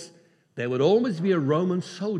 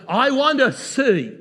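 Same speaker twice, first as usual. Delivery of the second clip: earnest plea; 6 semitones higher, 6 dB louder than usual. Acted. Blind man's request.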